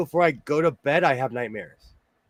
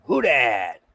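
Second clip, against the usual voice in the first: numb lips, lower and slurred; numb from the dentist; 5 semitones lower than usual. Real, not acted. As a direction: mumble it through numb lips. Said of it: "My lips are numb".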